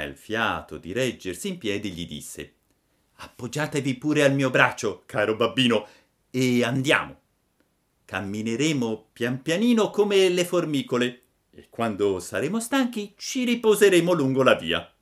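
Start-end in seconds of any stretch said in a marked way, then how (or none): 3.1-14.9 put-on a lightly higher, louder boy puppet, caring; lightly voiced Pinocchio leading his father. A narrator's reading. Pinocchio speaks to Geppetto.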